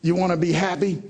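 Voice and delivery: put-on high, loud-ish old-timer question; imitated grandfather. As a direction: play grandpa quizzing his grandson. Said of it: "lost my southern accent".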